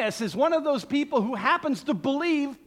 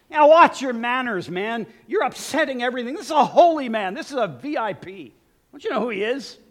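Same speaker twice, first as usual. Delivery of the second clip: mild angry scolding; 5 dB louder than usual. Acted. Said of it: "there's an angry tone here to their words".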